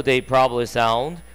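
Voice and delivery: very slow, word by word textbook reading; slow read-aloud. Shown as a demonstration. Teacher reading the sentence slowly to students. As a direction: spell each English word out slowly for the class.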